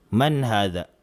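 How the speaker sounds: "Man hadha?" again flat and low with a falling end; no rise at all, like a statement; flat wrong question. Shown as a demonstration. Teacher repeats the wrong tune for his class. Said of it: "wala siyang tono na patanong".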